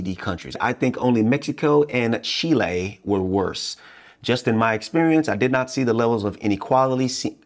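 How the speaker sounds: talking with a burned, sore tongue; words a little off from a sore tongue. Real, not acted. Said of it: "I just ate and I burned my tongue".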